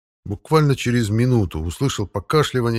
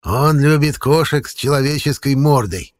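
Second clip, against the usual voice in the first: ruthless; 5 semitones higher, 4 dB louder than usual. Acted. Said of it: "безжалостно закончил лесовик".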